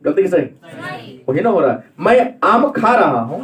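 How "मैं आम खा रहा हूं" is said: आम drawn out in a slowed sentence; slow teaching sentence, weight on आम; stress on आम. Shown as a demonstration. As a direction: lean on आम to show the focus. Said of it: "हमारा जोर होगा आम पर".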